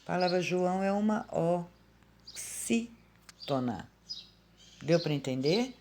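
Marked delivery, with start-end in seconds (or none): 2.3-3.9 "oxítona" slowly broken into separate syllables. Shown as a demonstration. Teacher naming the class of João, syllable by syllable. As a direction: say "oxítona" beat by beat with pauses.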